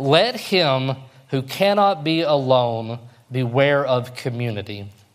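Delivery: very slow, deliberate, word-by-word delivery. A speaker reads a quote aloud to listeners, reading very slowly. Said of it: "I'm going to read it very slowly to you".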